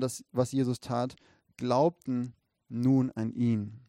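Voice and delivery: measured, emphatic Bible reading; scripture reading. A narrator's reading. Preacher reading the Lazarus story to the congregation, measured scripture reading. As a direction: read the story aloud with weight on key words. Reads the Bible passage aloud.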